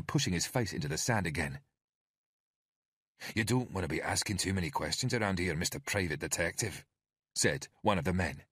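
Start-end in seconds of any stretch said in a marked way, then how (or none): 3.3-6.8 lightly voiced Scottish thug; a hint of Scottish menace; Scottish thug warning the detective off, light Scottish accent. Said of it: "His accent was Scottish".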